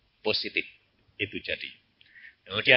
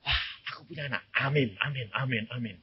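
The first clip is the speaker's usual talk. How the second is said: hushed amen; 6 dB quieter, faster than usual. Retold or imitated. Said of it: "dia bilang".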